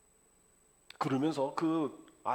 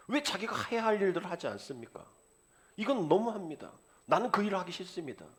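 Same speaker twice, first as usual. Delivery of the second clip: sulky complaint; 6 semitones higher than usual. Retold or imitated. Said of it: "이렇게 막 삐지셔가지고".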